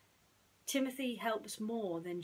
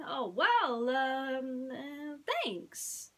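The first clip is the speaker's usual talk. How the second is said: high mouse voice, hesitant and polite; a tiny mouse fumbling a thank-you; small mouse hiding his letdown; Timothy, awkward; 5 semitones higher, 5 dB louder, much slower than usual. Acted.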